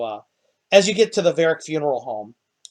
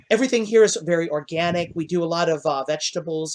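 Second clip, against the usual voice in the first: higher, fast chatty gnome; 3 semitones higher than usual. Acted. Gnome host praising his organic food, higher and fast. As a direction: rattle off the menu proudly.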